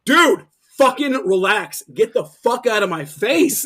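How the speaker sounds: slow, emphatic irritated retort; pissed off. Retold or imitated. Singer giving it back to the drunk man, pissed off. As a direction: retell telling someone off, drawn out and firm. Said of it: "I was pissed off".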